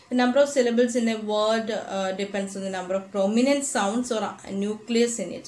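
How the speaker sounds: slow, careful definition read in English; textbook reading. Shown as a demonstration. Teacher reading the definition to students, slow and deliberate. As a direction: read the definition out slowly to the class.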